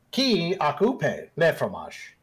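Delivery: slow attempt at French; bad French. Entourage member tries guard's supposed native tongue, bad French. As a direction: try French slowly, as a poor speaker. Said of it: "not very good at your native tongue".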